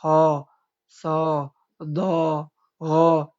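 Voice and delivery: ho, so, do, ro said thin and light, the wrong way; thin letters. Shown as a demonstration. Teacher shows students the wrong thin reading. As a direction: show the mistake with thin letters. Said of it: "dengan suara yang tipis ... itu keliru".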